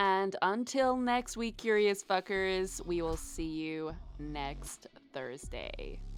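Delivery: really bad, clumsy put-on American accent. Host signing off until next week in a really bad american accent. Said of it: "really bad American accent".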